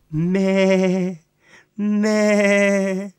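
slow, high lamb bleat; plaintive bleat. Acted. A friend teases him by bleating like a lamb, slow and high. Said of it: "жалібно та здивовано показує це ме".

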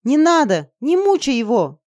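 high, loud pleading shout; girl begging Jeff to spare the dragon, loud and high; desperate cry. A narrator's reading. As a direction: scream at him to stop. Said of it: "закричала я".

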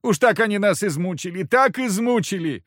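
high, loud begging whine; insistent whine. Acted. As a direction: keep whining for mercy. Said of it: "настойчиво ныть".

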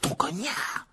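Harry startled by the elf's confession, incredulous; astonished. Acted. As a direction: repeat it in disbelief.

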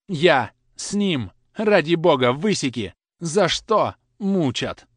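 high, loud sobbing pleas; cracking tearful heartbreak. Acted. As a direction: plead in tears, voice breaking. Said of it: "Слёзы душили меня".

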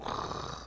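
voiceless rasping growl; wolves growling. Acted. Storyteller imitating wolves at the council, growling. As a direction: imitate a pack starting to growl. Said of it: "they all start growling".

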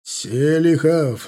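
long, high shout of a surname; yelling. A narrator's reading. Sergeant yells to his soldier across gunfire, shouting. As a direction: bellow the name, stretched out. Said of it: "заорал Черепанов".

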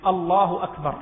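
الله أكبر said short and firm, no stretching; firm clipped takbir. Shown as a demonstration. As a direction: cut الله أكبر off crisply. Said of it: "جزما لا مدا ولا تمطيطا".

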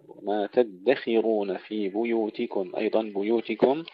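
بيوتكم with a full u on the B; clear damma on ba. Shown as a demonstration. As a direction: round the B of بيوتكم. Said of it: "ننتبه إلى ضم الباء جيدا". (ضم الباء جيدا)

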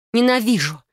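high, loud furious cry; shouted. Acted. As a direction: hurl it at him. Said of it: "выкрикнула я".

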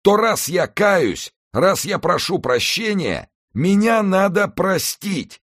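drowning man pleading, loud and high; desperate young man. Acted. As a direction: beg for your life from the water.

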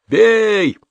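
high single yell; one word barked by the mob; crowd shout. A narrator's reading. (выкрик толпы: бей)

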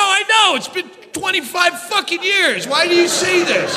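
mock outburst at the speaker; exasperated yell. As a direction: yell back at the announcement. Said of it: "And I go".

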